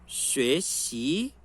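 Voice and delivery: "学习" slow, both syllables rising; second plus second tone. Shown as a demonstration. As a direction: let "学" and "习" both climb. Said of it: "Segundo e segundo". ("学习": os dois tons subindo, devagar)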